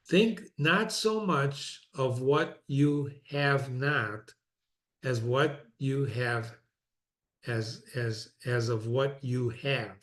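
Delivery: slow, measured re-reading in modern words. Acted. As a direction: spell it out slowly for the class. Rereads the quote slowly.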